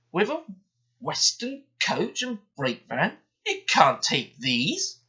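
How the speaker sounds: high, slow, doubting foreman voice; suspicious foreman. A narrator's reading. Foreman stopping the engines at the station, slow and doubting. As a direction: refuse them, slow and wary.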